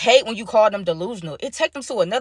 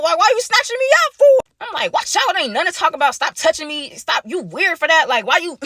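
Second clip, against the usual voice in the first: angry snap; 7 semitones higher than usual. Retold or imitated. Snapping at Peyton grabbing him.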